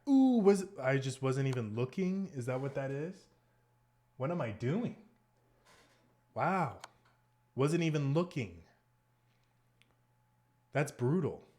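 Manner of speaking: high, loud groan of disbelief; real shock at your own blunder; shocked dismay. Real, not acted. Spots own blunder mid-game.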